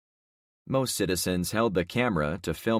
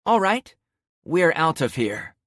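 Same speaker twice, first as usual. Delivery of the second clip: loud, high angry snap; snapping; 10 semitones higher, 7 dB louder than usual. Acted. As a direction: cut them off in disgust. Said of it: "Carmen snapped".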